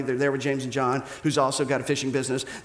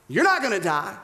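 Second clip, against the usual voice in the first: slightly raised, insistent denial; firm denial; 3 semitones higher than usual. Acted. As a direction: insist on it firmly. Peter's protest, first milder take.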